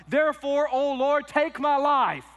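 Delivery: very high, loud, slow wail; hammed-up despairing plea to God; melodramatic Jonah. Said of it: "Jonah's prayer, verse three".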